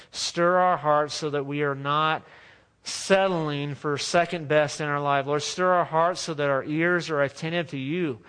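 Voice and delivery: earnest pastor leading the church in prayer; a pastor praying for hungry hearts; closing prayer. Acted. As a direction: pray it over the people, steady and sincere.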